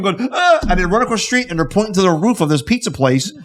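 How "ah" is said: short mock scream; brief imitation of a startled couple's scream; imitated scream. Couple screaming as second blast goes off, mock scream. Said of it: "I see the couple screaming".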